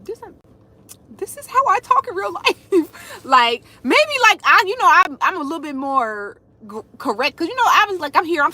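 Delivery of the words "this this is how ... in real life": high, amused disbelief with a laugh. Retold or imitated. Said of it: "I'm like".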